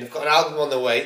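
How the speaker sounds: quick, punchy album plug; excited plug. Shown as a demonstration. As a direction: sell it like a radio ad. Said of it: "This is not an advert".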